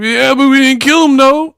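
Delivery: very high whiny mimicry; mock tearful confession. Steele volunteering information to the cops, high mock-tearful. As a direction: blurt it in a squeaky, comically guilty voice. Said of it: "when Steele was crying".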